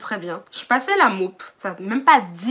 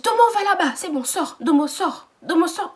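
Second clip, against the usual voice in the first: mock boss order; 6 semitones higher than usual. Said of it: "Elle me dit".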